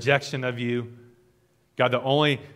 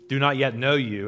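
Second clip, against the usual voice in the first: "yet" gently emphasized within the phrase; stress on yet. Real, not acted. Pastor praying for those who don't know God, stress on "yet". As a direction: put a light, deliberate stress on "yet". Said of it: "I have emphasized the word yet".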